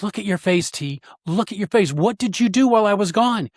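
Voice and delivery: high, insistent retelling of her astonishment; imitated amazed wife. Wife holding a mirror to husband's face, amazed demand, retold. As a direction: mimic her disbelief, pitch jumping up. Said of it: "and she goes".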